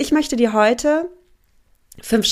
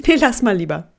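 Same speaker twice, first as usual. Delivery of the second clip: louder, laughing mock warning; louder inner voice; 4 dB louder than usual. Inner voice of doubt getting louder, with a laugh. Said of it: "manchmal wird die auch ganz laut".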